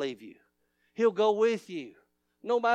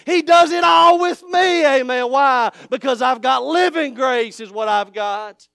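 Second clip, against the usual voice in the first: loud, high, shouted preaching climax; full-force preaching; 3 semitones higher, 9 dB louder than usual. Acted. Pastor shouting to the congregation about the Lord, full-force preaching. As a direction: holler it out like a revival preacher.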